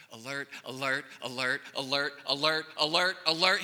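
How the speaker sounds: ramp the alarm up each time; building alarm. Acted.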